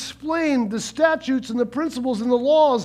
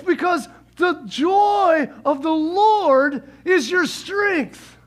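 proclaiming shout; 4 semitones higher, much slower than usual. Retold or imitated. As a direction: announce it like a leader calling out to the crowd. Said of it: "here's what he says".

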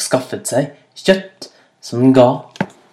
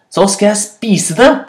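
raised, higher-pitched threat; shouted threat; 6 semitones higher than usual. A narrator's reading. Hyena threatening to eat rabbit, calling out angrily. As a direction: keep the shout going, a little milder. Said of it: "ropte hyene".

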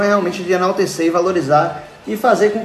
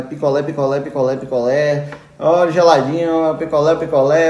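street vendor call. Retold or imitated. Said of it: "é vendedor gritando".

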